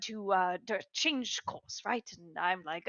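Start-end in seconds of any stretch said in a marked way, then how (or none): none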